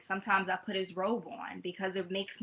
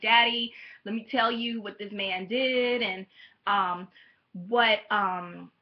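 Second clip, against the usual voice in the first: tearful ranting; 5 dB louder than usual. Retold or imitated. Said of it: "I'm just ranting and crying".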